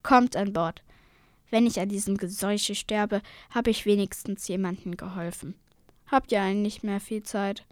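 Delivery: lightly voiced gruff old fisherman; grumbling old fisherman. Old fisherman taking the twins aboard, mild grumble. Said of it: "brummte dieser".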